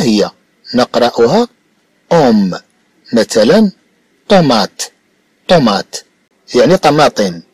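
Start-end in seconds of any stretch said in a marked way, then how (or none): 4.3-4.8 طومات, the middle consonant a true m, not n; m pronounced as m. Shown as a demonstration. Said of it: "نقرأ الميم ميمًا". 5.5-6.0 طومات, the middle consonant a true m, not n; m pronounced as m. Shown as a demonstration. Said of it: "نقرأ الميم ميمًا".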